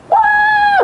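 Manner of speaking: high excited "Wah!" called from afar; mock shout. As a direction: shout it out from a distance, surprised. (teriakan kaget dari jauh)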